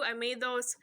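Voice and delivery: a touch of bad Wisconsin accent; lightly botched Wisconsin vowels. Real, not acted. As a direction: slip into a rough Wisconsin accent. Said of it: "That was a horrible Wisconsin accent".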